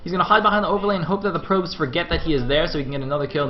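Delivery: high, sustained pitch, easing at the end; breathless-style running call of the action; excited play-by-play. Real, not acted. Caster following the last Ling's escape, excited. Lone Zergling fights probes.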